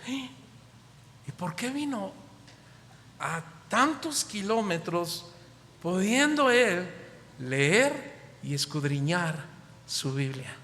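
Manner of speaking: musing aloud, slowing at the end; a churchgoer puzzling over the long journey; pondering question. Retold or imitated. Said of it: "también meditó y dijo".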